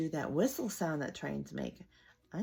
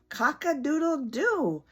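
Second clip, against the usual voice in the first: high rooster call; rooster crow; 8 semitones higher, 7 dB louder, slower than usual. Acted. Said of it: "wonderful things Mister Brown can do".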